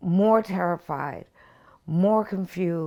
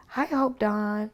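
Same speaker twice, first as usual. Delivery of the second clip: Michael's sing-song; 4 semitones higher, slower than usual. Retold or imitated. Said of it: "so he says".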